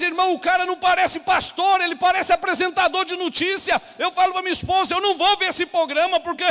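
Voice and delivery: high, loud, driving sermon; full-force preaching. Real, not acted. Pastor scolds the church about TV preachers, full-force preaching. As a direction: preach it hard against flashy pastors.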